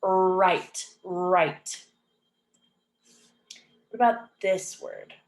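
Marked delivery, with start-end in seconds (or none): 0.0-1.9 "right" with a lengthened R and silent W. Shown as a demonstration. Teacher showing the R sound, careful drawn "right". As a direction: hold the R opening "right". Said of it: "R sound".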